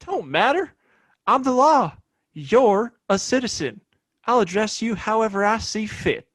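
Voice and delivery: stern authority. Acted. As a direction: put him in his place, hard. Sheriff asserting authority over Hank.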